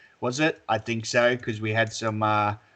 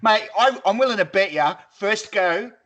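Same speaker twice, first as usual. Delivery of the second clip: excited; 6 semitones higher, 5 dB louder than usual. Real, not acted. Excited wager to mate.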